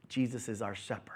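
"Jesus is our shepherd" breathed in a whisper. Shown as a demonstration. Preacher repeating to the church, "Jesus is our shepherd" whispered.

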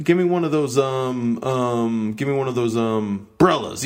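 brellas said with the stress on brel. Shown as a demonstration. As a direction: give me one of those brellas, punch brel. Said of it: "the emphasis is on the brel".

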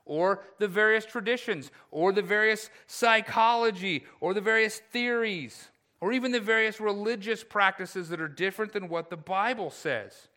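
high, emphatic pulpit list; forceful preaching. Real, not acted.

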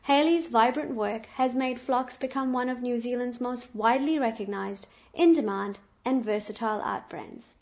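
loud, upbeat guest introduction; excited announcer. Acted. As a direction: present her like a headline act. Host introduces guest, louder.

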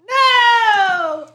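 high yelp of horror; mock cry of no. Host as coma patient dreading his co-host, high yelp. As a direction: yelp it like waking to bad news.

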